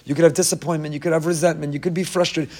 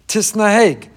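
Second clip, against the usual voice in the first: ordinary talk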